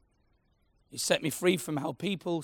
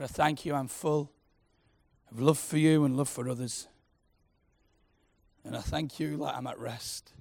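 heartfelt prayer. Acted. Leads a prayer.

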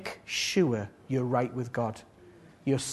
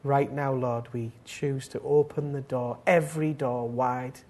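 earnest spoken prayer with long pauses; unhurried devotional praying; heartfelt prayer. Real, not acted. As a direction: address God reverently, phrase by phrase. Leads the congregation in prayer.

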